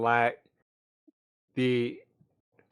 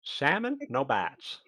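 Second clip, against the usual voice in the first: Turnip's accent, rising then dropping; slower than usual. Shown as a demonstration. Turnip demonstrating the safe word, in own accent. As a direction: model Turnip's accent for the others. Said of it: "Uh, Turnip's accent".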